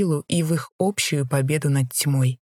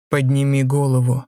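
menacing command; 2 semitones lower, 3 dB louder than usual. Acted. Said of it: "Грозный тон владыки".

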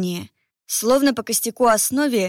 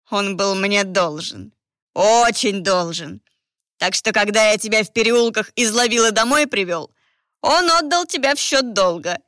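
a hint of a gloating villain; lightly voiced menacing priest, rising to triumph; sinister priest, gloating. Villain priest claims Mor.

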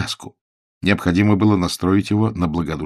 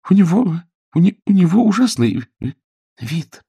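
high, halting stammer; girl humouring a madman, nervously; Billy, frightened; 11 semitones higher than usual. A narrator's reading. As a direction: trip over the words in fear.

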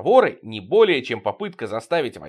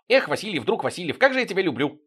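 sudden blurt; 6 semitones higher than usual. Acted. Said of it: "Потапов внезапно".

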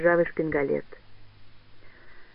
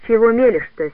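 angry cry; 2 semitones higher, 5 dB louder than usual. Acted. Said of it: "сердито вскрикнула Андрониха".

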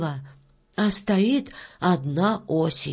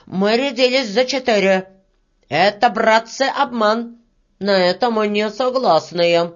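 mildly raised, indignant voice; shouted protest; 4 dB louder than usual. Acted. Red-haired worker disputes the agreed pay, shouting. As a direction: argue it out with some force. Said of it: "закричал рыжий мужичок".

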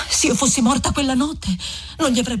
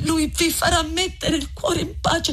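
Lucia pleading; 5 semitones higher than usual. Acted. Lucia repeats the phrase.

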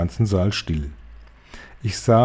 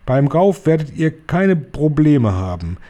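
higher, triumphant cry; higher, triumphant call; 5 semitones higher than usual. Acted. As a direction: crow it out victoriously.

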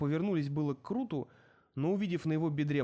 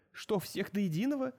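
shocked disbelief; 6 semitones higher than usual. Acted. Director shocked at order.

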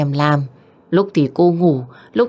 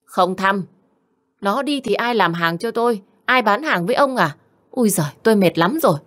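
curt, then rising higher in complaint; wife snapping at her husband, higher and fast at the end; cold refusal; 4 semitones higher than usual. Acted. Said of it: "Mặt của bà ta lạnh tanh".

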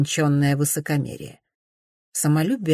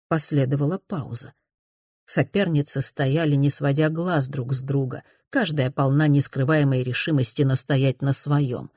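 plain reading voice

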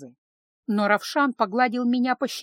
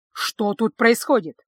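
louder and slower, each word pressed; angry repeated question; 5 dB louder, slower than usual. Acted. Ravshan repeating his question to Lisa, loud and angry. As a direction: demand it again, loud and hard. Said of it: "разгневанный Равшан".

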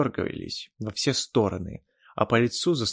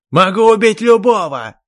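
much higher, very loud outraged yell; indignant; 10 semitones higher, 14 dB louder than usual. Acted. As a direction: shout it in protest. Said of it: "возмутился эльф".

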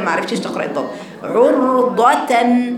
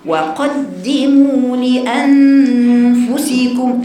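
وقدموا لأنفسكم slow, louder and chanted; forceful recitation; 2 semitones higher, 4 dB louder, much slower than usual. Shown as a demonstration. Teacher demanding seriousness, reading with strength. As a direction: push energy into لأنفسكم. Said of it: "قوة في القراءة".

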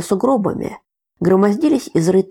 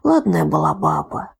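grieving; 13 semitones lower than usual. A narrator's reading. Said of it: "голос деда дрогнул".

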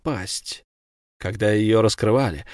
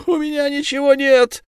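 desperate plea. Acted. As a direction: plead with nothing left. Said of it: "отвечал рыбник".

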